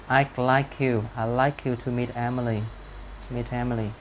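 "like you" and "meet Emily" run together; linked sounds. Shown as a demonstration. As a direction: carry the K of "like" into "you". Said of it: "chúng ta sẽ có cái nối âm ở đây".

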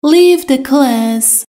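slow, each word laid out clearly; slow model sentence. Shown as a demonstration. Teacher to Persian learners, slow and clear. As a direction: spell it out slowly for learners. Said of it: "teacher models an English sentence".

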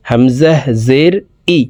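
"হামজাহ জের ই" with the hamzah snapped off quickly. Shown as a demonstration. Teacher drilling the class, quick hamzah demo. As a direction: clip "হামজাহ" short and fast, then "জের ই". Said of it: "হামজাহ বলে দ্রুতভাবে পড়ব".

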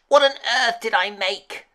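high, dismayed storybook witch; hammed-up witch, aghast at her own creation; screeching witch. A narrator's reading. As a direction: scold in a high, exasperated witch voice. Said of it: "screeched the witch".

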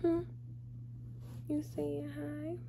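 high cooing questions. Real, not acted. Talking to her cat.

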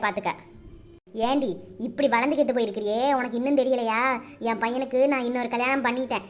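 cold and scornful, ordering her out; scolding mother-in-law. Acted.

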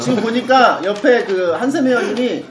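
ordinary delivery

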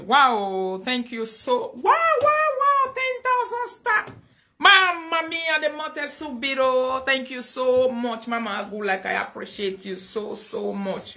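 high, loud, drawn-out cries of amazement; overwhelmed thanks, easing down from a high shout; excited gushing thanks. Real, not acted. Host thanking Mama for ten thousand stars, excited gushing.

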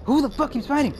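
shouting orders over battle. Real, not acted. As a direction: bellow at them to stop. Yelling at fighting players.

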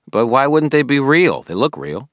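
a puzzled, keen friend pressing Harry; Billy the eager friend. Acted. Billy questioning Harry about the toads, puzzled and keen.

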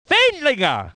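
surname called with a peak, then a fall; exclaimed name. Acted. Commentator naming Wendlinger, exclaimed call. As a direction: lift the name and let it fall. Same name more excited.

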